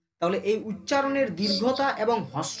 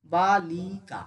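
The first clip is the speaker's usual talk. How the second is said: syllable by syllable; 3 semitones lower, much slower than usual. Shown as a demonstration. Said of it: "এই যেমন যেটা বললাম".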